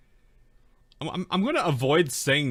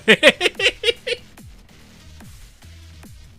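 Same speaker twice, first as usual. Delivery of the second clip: loud laughter; 9 dB louder than usual. Real, not acted.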